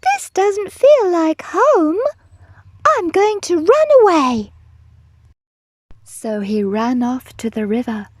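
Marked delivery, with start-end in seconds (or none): 0.0-4.5 high, loud wailing little-dinosaur voice; hammed-up upset cry. A narrator's reading. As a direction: wail it like a miserable youngster. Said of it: "And he cried".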